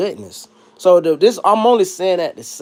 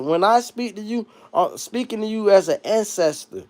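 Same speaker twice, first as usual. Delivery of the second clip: mock fatherly tenderness; 4 semitones higher than usual. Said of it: "What did he tell Luke?".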